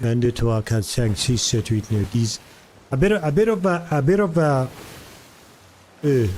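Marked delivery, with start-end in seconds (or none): 0.0-2.4 counting in French with a mock French mouth, jaw held still; a demo of French counting, mouth barely moving; French accent. Shown as a demonstration. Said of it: "you kinda have to go like this".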